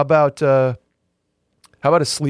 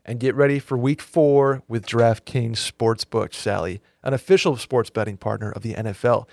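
ad read. Acted. Reads DraftKings ad.

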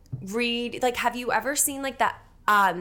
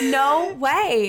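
high, breath-light laughing astonishment; laughing disbelief; 4 semitones higher, 5 dB louder than usual. Real, not acted. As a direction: laugh into it, truly amazed. Reacting to the moon sign revelation.

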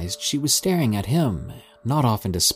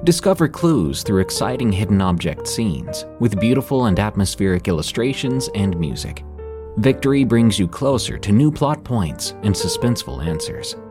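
ad read. Acted. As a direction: sell it like a podcast ad. Narrator reads sponsor ad.

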